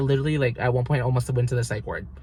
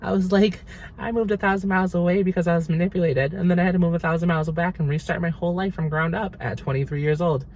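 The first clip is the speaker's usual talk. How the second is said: higher, lightly mocking sob-story voice; a hint of a bubbly influencer telling her tragedy; mock TikTok intro; 6 semitones higher than usual. Parodying herself as a TikTok storyteller, higher and bubbly. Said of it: "Be like".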